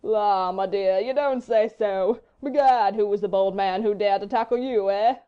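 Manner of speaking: loud, very slow, unbothered fop; placid foppish drawl. A narrator's reading. Husband humouring his insulted wife, placid drawl. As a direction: stretch the words out in amused, placid disbelief. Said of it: "he rejoined placidly".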